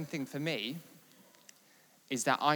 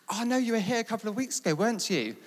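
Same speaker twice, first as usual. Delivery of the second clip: high, quick, louder imitation of the wife; mock-excited recognition at speed; retold excited insistence; 9 semitones higher, 5 dB louder than usual. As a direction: act out her eager certainty, pitched well up. Leader's wife insists they met, retold.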